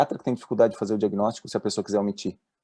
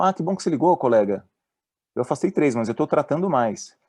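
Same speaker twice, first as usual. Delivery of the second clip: high, delighted colleague voice; eager doctor; 5 semitones higher than usual. Retold or imitated. Psychiatrist happily greeting the caller, high and eager. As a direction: gush like a doctor glad to get a call. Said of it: "Alô, doutor, tudo bem?".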